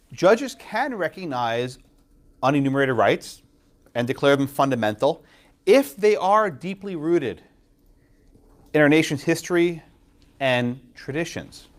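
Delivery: slow, deliberate quoting of the test; reading the rule slowly. Retold or imitated. Professor to students, quoting the test slowly and deliberately. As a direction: read the rule out word by word. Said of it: "So then he says".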